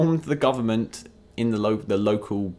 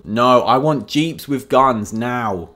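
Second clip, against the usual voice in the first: mock demand; 5 dB louder, slower than usual. Official's stubborn reply, acted quote.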